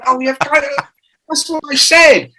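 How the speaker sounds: high, squeaky backpedalling; mock innocent high-pitched cover-up; sheepish bluff. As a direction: pretend you meant it all along, voice up high. Bluffing reply to producer.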